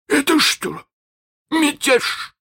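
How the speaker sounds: high, silky, dangerous question. Acted. Hook silkily asks his crew, high and dangerous. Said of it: "спросил Крюк ещё вкрадчивее".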